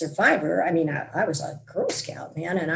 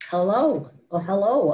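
yelled hello; 5 dB louder than usual. Retold or imitated. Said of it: "I yelled out".

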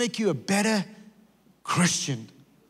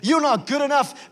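accusing; 5 semitones higher than usual. Retold or imitated. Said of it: "people will tell us".

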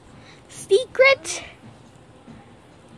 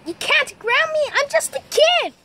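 high, indignant plea; protesting; 5 semitones higher than usual. Acted. Kid pleading against being grounded, high-pitched protest.

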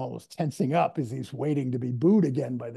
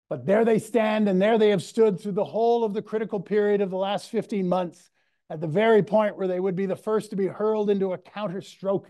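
louder and higher, rolling oratory with a hint of Churchill's accent; mock Churchillian accent; 4 semitones higher, 3 dB louder than usual. Lecturer quoting Churchill's Mansion House speech, in a mock Churchillian accent. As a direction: ham up Churchill's wartime speech to the Canadians. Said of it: "my, my worst Churchillian accent".

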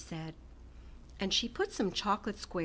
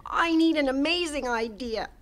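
a hint of eager little rabbit, a bit louder; bunny thinking aloud; 6 semitones higher, 6 dB louder than usual. A narrator's reading. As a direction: muse it out, hopeful. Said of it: "he thought".

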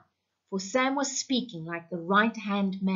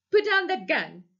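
much higher, louder frantic plea; pleading in fear; 8 semitones higher, 4 dB louder than usual. Acted. Husband begging his armed wife, frantic and high.

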